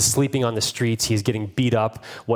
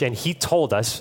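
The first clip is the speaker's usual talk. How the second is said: mildly incredulous retold police report. Police report to the bishop, mildly incredulous. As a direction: voice the officers' disbelief, lightly. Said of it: "they say this incredulously".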